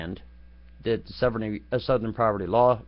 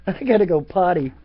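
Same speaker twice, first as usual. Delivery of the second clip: laughing; 6 semitones higher, 6 dB louder than usual. Real, not acted. Laughing at own joke.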